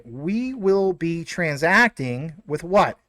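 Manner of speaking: slow, careful "we will" in full; corrected, spelled out. Real, not acted. Correcting himself to viewers, slow and careful. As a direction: slowly say "we will" in full, each word clear. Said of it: "or sh-, excuse me".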